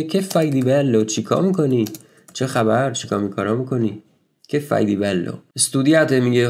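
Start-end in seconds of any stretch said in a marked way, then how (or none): 0.0-5.3 lively quoted question. Retold or imitated. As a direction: ask it like a curious friend. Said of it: "این مثلاً شروعش اینه که".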